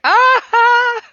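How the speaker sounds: high, loud burst of emotion; overwhelmed cry. Retold or imitated. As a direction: let the feeling burst out. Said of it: "I'm just like".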